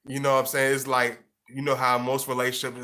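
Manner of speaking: usual speaking voice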